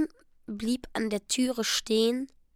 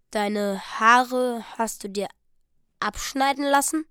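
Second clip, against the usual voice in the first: laboured question. Acted. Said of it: "fragte Jim mühsam". (langsam, mühsam fragend)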